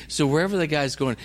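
ordinary talk, nothing marked

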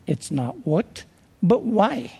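put-on a faint, half-hearted English accent; poor English accent. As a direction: lightly imitate an old Englishman's English accent. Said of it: "he says with his English accent".

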